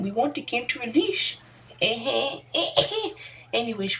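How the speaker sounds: lightly voiced placating exec; mock EA spokesman. EA spokesman excusing the cut content, smarmy.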